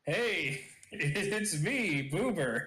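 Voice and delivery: lightly voiced cartoon character; a hint of a cartoon knockoff introducing himself; slight put-on cartoon voice; Boober. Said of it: "hard for me to really recreate that personality".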